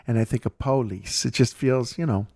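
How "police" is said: "police" as POH-lees; Southern first-syllable stress. Retold or imitated. Host imitates the audiobook reader, "police" stressed on PO. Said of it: "I'm not really Southern".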